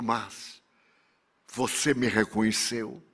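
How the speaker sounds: low, hushed question; stunned question. Acted. Retreating Excellency asking his victim, stunned and hushed. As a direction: ask it softly, pitched well down.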